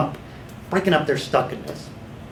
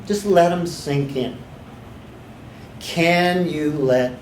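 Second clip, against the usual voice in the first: guided meditation; 2 semitones lower than usual. Shown as a demonstration. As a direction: let each question sink in gently. Demos questions to client.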